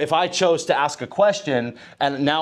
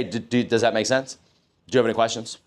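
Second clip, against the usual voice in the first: really want to hear their questions; inviting check-in; open, genuine question; 3 semitones lower, faster than usual. Shown as a demonstration. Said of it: "Now I'm gonna say".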